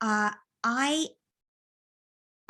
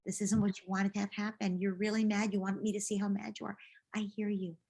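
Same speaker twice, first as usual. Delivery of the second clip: validating; 2 semitones higher than usual. Pretend. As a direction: acknowledge the child's anger gently. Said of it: "you can validate".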